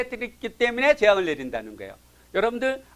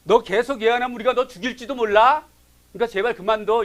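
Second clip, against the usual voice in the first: louder mock threat from the townsmen; retold threat; 4 semitones higher, 5 dB louder than usual. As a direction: menace the prophet, half acted. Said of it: "협박을 하는 거예요".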